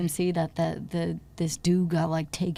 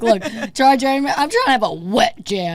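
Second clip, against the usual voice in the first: excited; 3 semitones higher, 5 dB louder than usual. Retold or imitated. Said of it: "I'm like".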